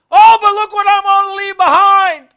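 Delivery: high, loud whining lament of a clinging believer; mock complaining believer. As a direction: ham up a worldly whiner. Mocks a reluctant believer.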